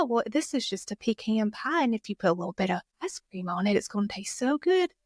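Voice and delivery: sweet-talking Southern sales pitch; Southern accent. Acted. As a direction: lay on a Southern twang to sell pie. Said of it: "the power of the Southern accent".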